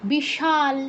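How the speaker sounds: "বিশাল" slowly with a plain sh; Bengali sh sound. Shown as a demonstration. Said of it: "স দিয়ে অক্ষর উচ্চারণ করলাম".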